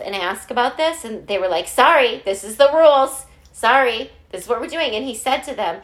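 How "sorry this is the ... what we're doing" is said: louder, higher imitation of an unbending official; mock official refusal. Officials refuse the principal's appeal, mock firm apology. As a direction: brush them off firmly, as a retold bureaucrat.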